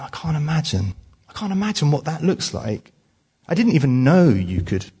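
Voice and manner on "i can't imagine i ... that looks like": hushed, breathy disbelief, a little higher; stunned whisper. Real, not acted. Preacher voicing his own shock to the congregation, in a stunned whisper. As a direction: whisper it as if the thought is too heavy to say aloud. Stunned inner thought about abuse.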